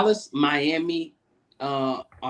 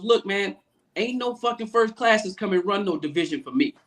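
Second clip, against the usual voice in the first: higher-pitched indignant imitation; mock telling-off, pitched up; retold flat refusal to budge; 5 semitones higher than usual. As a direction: play a boss putting a newcomer in his place. Retells boss refusing the caller.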